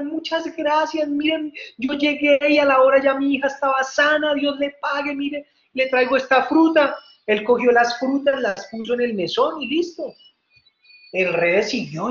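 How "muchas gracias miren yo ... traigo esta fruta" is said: high, running, joyful thanks; happy. Acted. Grateful mother brings fruit to the innkeeper, happy and excited. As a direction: pour out thanks in a raised voice. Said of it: "y toda feliz".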